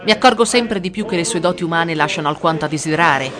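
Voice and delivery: harsh reply. Acted. Mother rebuking Frau Meheimen, harsh tone. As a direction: cut her down coldly. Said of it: "reagì per la prima volta duramente".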